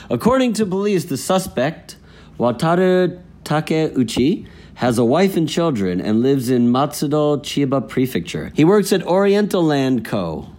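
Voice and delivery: measured, emphatic headline reading; news read. Acted. Co-host reading the day's fraud story, news read.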